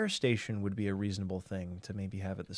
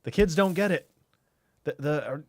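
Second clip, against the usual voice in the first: panicky exec; 6 semitones higher, 6 dB louder than usual. Retold or imitated. Mock TV executives panicking.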